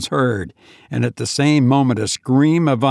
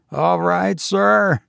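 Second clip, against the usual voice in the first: higher, anxious question; uneasy inquiry; 6 semitones higher, slower than usual. Acted. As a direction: ask with worried concern. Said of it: "he inquired".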